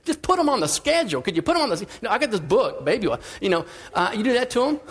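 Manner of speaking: put-on young father smugly judging struggling parents; smug inner voice. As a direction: sneer at him as if you have it all figured out. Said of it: "listening to this guy going".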